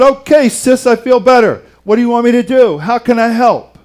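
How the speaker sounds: lively imitation of a man suddenly well; eager, healed Lazarus. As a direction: bounce up ready to pitch in. Acting out a healed Lazarus jumping up.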